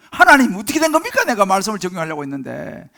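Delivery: 하나님께 높고 큰 소리로 따지기 시작해 끝은 낮아짐; 따지는 하소연. Acted. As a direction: cry out a protesting question to God. Acts out complaining to God. (억울하게 따지는 말투)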